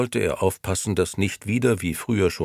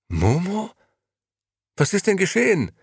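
high, louder shocked question; aghast; 14 semitones higher, 4 dB louder than usual. A narrator's reading. Gigi aghast, pressing Beppo about Momo. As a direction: gasp it out in dismay. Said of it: "setzte sich fassungslos".

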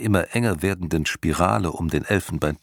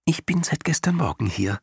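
high, small chirpy voice; a tiny being explaining politely; tiny creature voice; 8 semitones higher than usual. A narrator's reading. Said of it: "erklärte der Winzling".

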